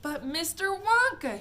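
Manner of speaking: put-on high, loud boyish call; child's shout. Boy shouts at Mister Wonka, high and loud. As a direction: call out over the room at Wonka. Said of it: "he shouted".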